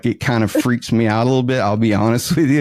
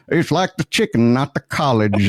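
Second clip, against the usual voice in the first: put-on Southern accent; 2 semitones higher than usual. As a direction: play up the Southern accent a little. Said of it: "with my Southern accent, it made it wor".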